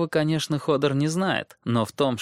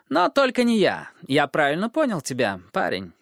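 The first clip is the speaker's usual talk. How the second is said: mocking dwarf voice; 5 semitones higher than usual. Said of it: "отвечал карлик".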